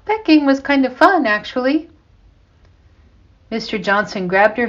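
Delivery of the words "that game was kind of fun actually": lightly voiced wife. Missus Johnson speaks.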